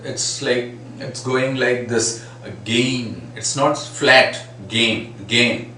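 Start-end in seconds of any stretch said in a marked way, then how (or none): 3.3-4.4 flat said with a flat a; wrong flat vowel. Shown as a demonstration. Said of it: "No, it's not that flat".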